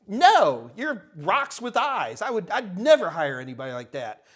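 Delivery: emphatic soapbox rant, opening on a loud no; exasperated, vehement dismissal. Real, not acted. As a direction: refuse it forcefully, then drive the point home. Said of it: "I'm just vehement".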